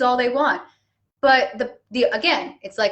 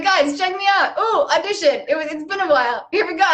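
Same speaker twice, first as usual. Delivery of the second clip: excited self; 5 semitones higher than usual. Retold or imitated. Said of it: "I'm like".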